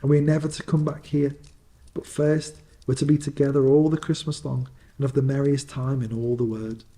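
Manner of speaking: a little sister overflowing with joy; gleeful little girl. Acted. Fan continues gleefully.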